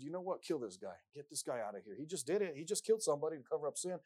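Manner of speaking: loud, rising royal fury; imagined king shouting in anger; David's angry order. Acted. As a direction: bark it out like an enraged king. David voiced ordering killing.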